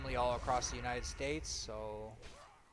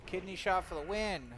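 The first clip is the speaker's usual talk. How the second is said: higher, louder victory shout; hyped-up callout; 7 semitones higher, 4 dB louder than usual. Real, not acted. Streamer crowing to chat after a kidney shot, hyped. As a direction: crow it to chat triumphantly. Repeats the call, more hyped.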